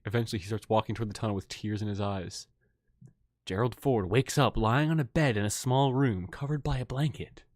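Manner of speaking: low, soft story narration. A narrator's reading. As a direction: narrate the sombre scene quietly.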